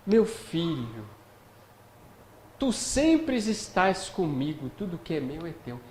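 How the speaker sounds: slow, gentle motherly voice; tender like a mother. Acted. The father answering his older son, tenderly like a mother. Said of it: "é mãe que fala".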